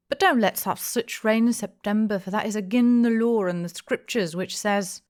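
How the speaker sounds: a hint of a preachy rustic holding forth; pompous old villager. A narrator's reading. Old regular grumbling about rain, preachy voice.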